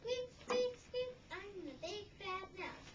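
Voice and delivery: high, loud squeaks then the mouse's boast; squeaky mouse. Acted. Note from the mouse.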